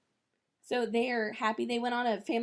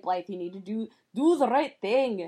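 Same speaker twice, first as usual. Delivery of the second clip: gentle lecture; 2 semitones higher, 6 dB louder than usual. Retold or imitated. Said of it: "he's trying so hard to be like".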